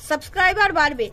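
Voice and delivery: ordinary delivery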